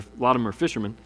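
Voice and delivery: usual speaking voice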